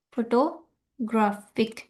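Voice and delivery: फोटोग्राफिक slow with main stress on ग्रा; slow classroom demo of फोटोग्राफिक. Shown as a demonstration. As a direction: draw out फोटोग्राफिक, leaning on ग्रा. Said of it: "मैं example बताती हूँ".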